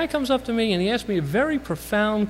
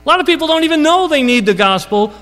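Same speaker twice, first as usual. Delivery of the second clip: preaching; 9 semitones higher, 7 dB louder than usual. Real, not acted. Preaching climax to congregation.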